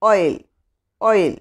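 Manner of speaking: ഓയിൽ said twice, short and falling; sounding out. Shown as a demonstration. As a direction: read ഓയിൽ out for the class. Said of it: "ഐ എൽ".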